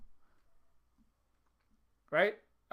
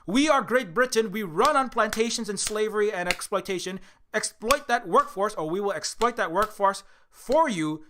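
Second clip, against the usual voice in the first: mock imperial Britain; 3 semitones higher than usual. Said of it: "Britain would come and say".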